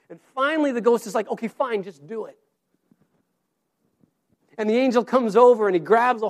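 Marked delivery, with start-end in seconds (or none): 1.3-2.4 softer, fading surrender; resigned giving in. Retold or imitated. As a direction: let it go with a reluctant sigh of words. Ghost gives in.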